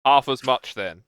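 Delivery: loud, gruff brush-off; gruff dismissal. Acted. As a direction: bark it like an annoyed god. Dwarf god returns, dismisses again.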